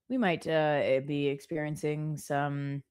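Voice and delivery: pilot voice. Retold or imitated. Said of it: "he sounds like a pilot".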